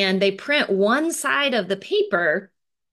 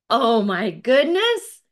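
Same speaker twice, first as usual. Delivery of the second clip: slow, stretched-out wonder, a little louder; amazed; 4 semitones higher, 4 dB louder, slower than usual. Acted. Two kids spotting big boxes, slow and amazed. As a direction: savor each word in delight. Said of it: "Charlie and Lucy say together".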